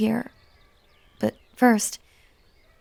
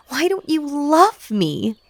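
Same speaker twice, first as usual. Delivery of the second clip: higher and louder, an anguished outburst; anguished cry; 7 semitones higher, 5 dB louder than usual. Acted. Spurned villain crying out for love, loud and high. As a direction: break open on love. Pleading build peaks.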